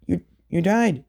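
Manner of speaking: high, stammered disbelief; stunned question. Retold or imitated. Mother learns her son died, stunned and stammering. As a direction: choke out the question in shock.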